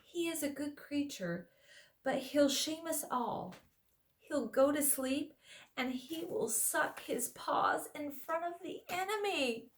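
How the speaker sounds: high, grumbling dwarf voice; a worried dwarf, complaining. Acted. Trumpkin the dwarf speaks.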